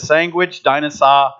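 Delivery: put-on light Massachusetts Yankee accent; a hint of New England accent. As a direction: imitate Yankee pronunciation of these words. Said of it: "he still says ... weird Yankee words".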